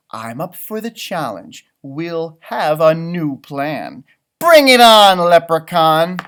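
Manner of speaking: slow start building to a loud challenge; gingerbread man challenge. A narrator's reading. Gingerbread man challenges the leprechaun, building loud. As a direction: dare the leprechaun, rising to a shout.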